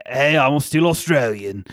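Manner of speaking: mock Australian accent. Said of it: "like, in the background. He's like".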